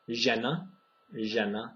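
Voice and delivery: žena with a buzzing zh; Czech žena. Shown as a demonstration. Teacher modelling žena for learners. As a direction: start žena with the zh of vision. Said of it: "Czech example of this is".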